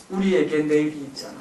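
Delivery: calm self-reassurance. Shown as a demonstration. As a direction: soothe yourself with hope. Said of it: "속으로 이렇게 되뇌이세요". (속으로 되뇌는 차분한 다짐)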